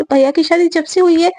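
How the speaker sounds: acted keen excitement; excited. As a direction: gush about a long-missed treat. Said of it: "वो दोनों excited हो जाते हैं".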